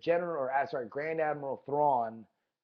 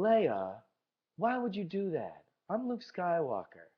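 bad Luke impression; 2 semitones higher than usual. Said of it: "the secret to all my impressions".

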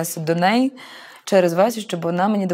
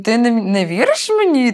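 angry question; 5 semitones higher, 4 dB louder than usual. Retold or imitated. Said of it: "Такий просто розлючений".

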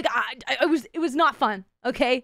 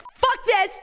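fed-up curse; 9 semitones higher, 4 dB louder than usual. Retold or imitated. Quitting the ocean in a huff.

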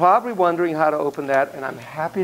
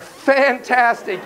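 excited; 6 semitones higher, much slower than usual. Acted. Praising slowly.

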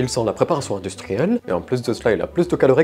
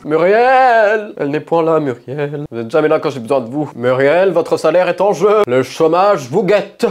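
loud, much higher angry calling; shouting for the maid; 5 semitones higher, 7 dB louder than usual. Acted. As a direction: bellow at the absent maid. Yells for the absent maid.

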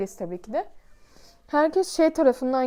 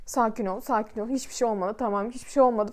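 reassuring father; 3 semitones lower, 4 dB quieter than usual. Retold or imitated. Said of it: "Babam da böyle".

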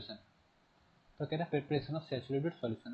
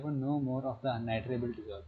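very slow, word-by-word reading aloud; slow textbook reading; much slower than usual. Shown as a demonstration. Teacher reading the textbook definition to the class, slow and deliberate. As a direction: read the definition slowly so students can follow.

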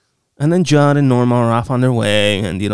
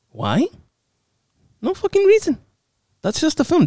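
exasperated. Real, not acted. Ranting at movie plot.

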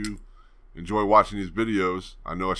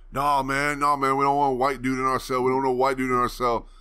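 higher-pitched imitation of an objecting inmate; mock complaint, pitched up; retold protest; 5 semitones higher than usual. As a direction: act out him raising hell, mildly. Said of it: "he was raising all sorts of hell".

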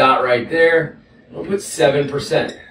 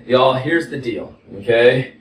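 slow, drawled Texas y'all; Texas accent; slower than usual. Real, not acted. Teacher addressing students in a relaxed Texas accent. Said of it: "There's my Texas accent coming out".

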